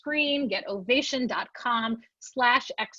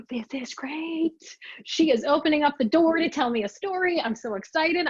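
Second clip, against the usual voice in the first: higher, giddy thrill kept to herself; excited inner voice; 5 semitones higher than usual. Retold or imitated. Thinking gleefully as Cheryl starts her story, excited. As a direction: bubble with glee at a story coming. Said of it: "And I was like".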